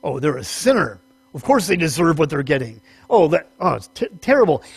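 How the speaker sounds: lightly acted, tutting Pharisee; mock a judgmental Pharisee, disapproving of sinners; a hint of sanctimonious disgust; disdainful Pharisee. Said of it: "what the Pharisees would do would simply be".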